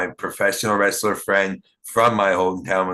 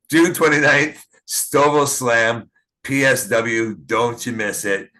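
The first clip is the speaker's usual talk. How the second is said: promo hype; 3 semitones higher than usual. Acted. Closing promo announcement.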